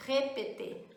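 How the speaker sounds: "répéter" as ray-pay-tay; closed é in every syllable of "répéter"; "répéter" with narrow vowels and silent final r; closed acute É. Shown as a demonstration. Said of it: "aquele E é fechado".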